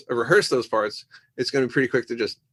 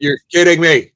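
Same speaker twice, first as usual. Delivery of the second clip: tag-less disbelief; 4 semitones higher, 10 dB louder than usual. Retold or imitated. Retelling his horrified reaction to news.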